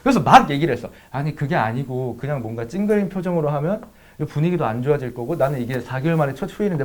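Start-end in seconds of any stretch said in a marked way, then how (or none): 1.1-6.8 rapid-fire pleading. Retold or imitated. Boyfriend explaining himself to his upset partner, rapid-fire. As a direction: explain yourself in one quick, soft rush. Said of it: "막 존나 빠르게 얘기했어".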